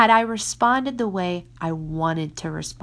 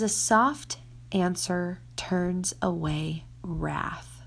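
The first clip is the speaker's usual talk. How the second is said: soft verse; 5 dB quieter, much slower than usual. Shown as a demonstration. Reading verse slowly and softly.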